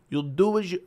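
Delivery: put-on faint, tentative Irish accent; half-hearted stab at an Irish accent; Conor McGregor accent. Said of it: "have a Conor McGregor accent".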